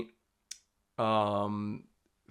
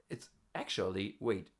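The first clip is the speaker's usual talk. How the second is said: ordinary delivery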